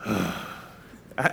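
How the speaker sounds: a heavy audible sigh, voice dropping low; sigh before speaking. Retold or imitated. Patient in the waiting room sighing at the front desk. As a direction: let out a weary sigh first. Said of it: "I'll sigh before I say anything".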